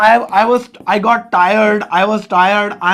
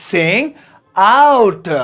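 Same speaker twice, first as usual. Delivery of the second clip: word by word. Shown as a demonstration. Teacher breaking sing out into two words for the class. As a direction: sing and out split by a pause. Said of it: "अंग्रेजी में बोल सकते हैं sing out".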